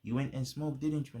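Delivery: lightly imitated teasing friend; teasing laugh. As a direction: needle him like you caught him out. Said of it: "he was laughing".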